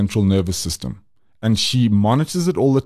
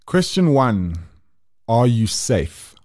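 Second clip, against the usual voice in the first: driving instructor. Acted. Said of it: "those first three questions sounded like my driving instructor".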